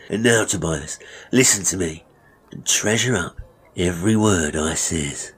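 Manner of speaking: villain in mock-kindly lecture; lightly voiced smug barber. Master praising his trade to apprentice, smugly. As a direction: lecture him with sly self-satisfaction.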